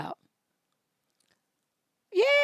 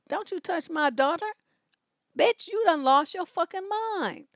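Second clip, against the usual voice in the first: a sharp, raised mock telling-off, higher by the end; retold angry warning; 5 semitones higher than usual. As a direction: snap at the stranger, half acting it out. Protecting daughter from strangers' hands.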